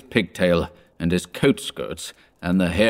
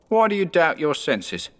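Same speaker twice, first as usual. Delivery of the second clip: ghost voice; 7 semitones higher than usual. A narrator's reading. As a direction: press him like a phantom. Ghost speaks.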